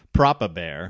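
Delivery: clipped posh British Papa Bear. Retold or imitated. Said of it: "He's awfully proper".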